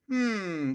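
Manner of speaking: drawn-out falling "hmm"; a curious hum that comes out wrong; curious hum, botched. Shown as a demonstration. Man demonstrating curiosity to the audience, botched curious hum. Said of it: "that didn't sound right".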